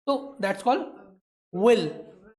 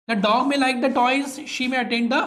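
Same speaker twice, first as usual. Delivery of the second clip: slow model reading; much slower than usual. Shown as a demonstration. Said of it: "teacher models English sentence slowly".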